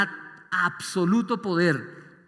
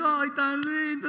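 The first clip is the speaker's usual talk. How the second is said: put-on cooing at a baby; 10 semitones higher, slower than usual. Adult cooing over a small child.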